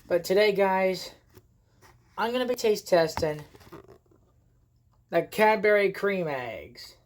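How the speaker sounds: rough sore-throat voice. Real, not acted. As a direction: talk through a sore throat. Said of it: "Sorry about the voice. I have a sore throat".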